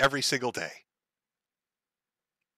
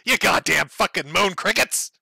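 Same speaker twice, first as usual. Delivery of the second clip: mock yelled insult; 2 semitones higher than usual. Shown as a demonstration. Klansman yelling from a car at men on the corner, mock yell. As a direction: lean out the car window and yell it, hammed-up. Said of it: "get angry and then scream that".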